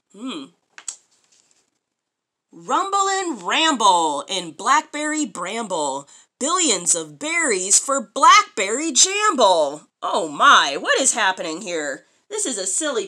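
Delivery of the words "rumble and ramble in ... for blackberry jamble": sing-song rhyme, slowing at the end; reading to children. Acted. Mother reading a picture book rhyme aloud, sing-song. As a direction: read the rhyme to a small child.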